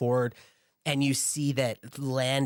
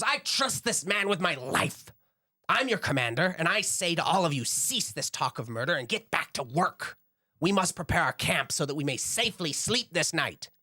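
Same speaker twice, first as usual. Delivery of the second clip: yelling commander; 6 semitones higher than usual. Acted. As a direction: order the troops back to work. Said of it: "He's, like, yelling at them".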